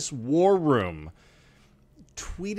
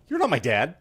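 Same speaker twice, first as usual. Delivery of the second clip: lightly voiced indignant kid, louder; a hint of an affronted child; imitated kid; 5 dB louder than usual. Podcaster retelling a mistaken kid's reaction, lightly imitated child. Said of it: "looks up at me and goes".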